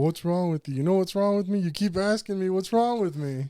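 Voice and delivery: mock the endless question, then snap back; mimicked nagging exchange. Friend mimics the perpetual what's-wrong question, irritated.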